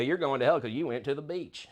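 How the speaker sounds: a light hint of a redneck accent, mocking a preacher; lightly put-on Southern redneck accent for a false teacher. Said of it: "I always make it a redneck accent".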